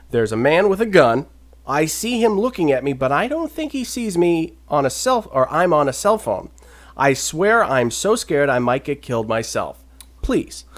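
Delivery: composed reading of a frightened caller; a frantic call read out with little panic; calm retold plea. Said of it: "he did it in a much less calm voice, like I just did".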